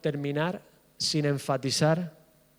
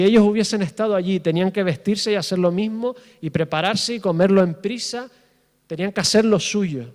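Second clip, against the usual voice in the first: higher and louder, pressing each phrase; loud fervent preaching; 3 semitones higher, 5 dB louder than usual. Real, not acted. Pastor exhorting the congregation about their children, loud fervent preaching. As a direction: preach it at full force, urging.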